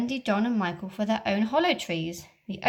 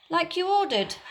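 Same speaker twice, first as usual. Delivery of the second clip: pirate voice; 8 semitones higher than usual. Acted. Smee answers Hook.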